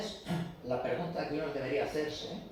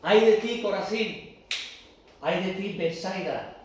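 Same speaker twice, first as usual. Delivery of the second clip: proclaimed woe; 2 semitones higher, 6 dB louder than usual. Acted. Preacher crying woe over Corazín and Betsaida, loud. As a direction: call out the curse over the cities.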